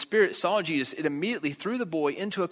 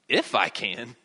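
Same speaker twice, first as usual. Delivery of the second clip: "if" hit hard, as a challenge; stress on "if"; 5 semitones lower, slower than usual. Retold or imitated. Preacher voicing Jesus answering the father, stress on "if". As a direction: throw the "if" back at the doubter. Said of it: "Maybe he didn't say it like that".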